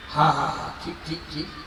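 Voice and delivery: low, fading repeated assent; murmured agreement. Acted. Listener agrees while boatman tells his tale, low murmur. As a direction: agree softly, dropping almost away.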